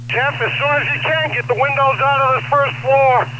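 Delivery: urgent firefighter radio. Real, not acted. Fire commander shouting orders on radio.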